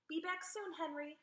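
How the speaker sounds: high, lightly cheerful goodbye. A narrator's reading. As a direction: chirp it like a cheery little girl. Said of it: "she said cheerfully".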